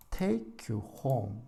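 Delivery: slow stressed take and home. Shown as a demonstration. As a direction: take you home, slow, take and home long and strong. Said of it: "동사는 강하게".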